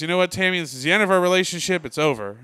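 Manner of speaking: lightly acted upset outburst; upset boyfriend. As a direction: act out a fed-up breakup, lightly heated. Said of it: "Todd gets very upset. He goes".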